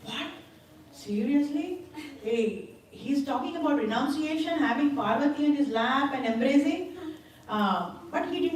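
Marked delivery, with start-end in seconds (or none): 0.0-7.0 higher-pitched mock astonishment; incredulous questioning in a raised voice; astonished. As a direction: act out taken-aback disbelief. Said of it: "he's astonished".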